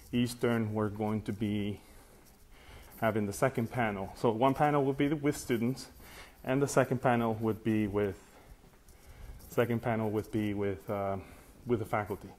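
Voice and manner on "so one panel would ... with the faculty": winded from climbing stairs; out of breath. Real, not acted. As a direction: talk while catching your breath. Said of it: "catching my breath a little bit".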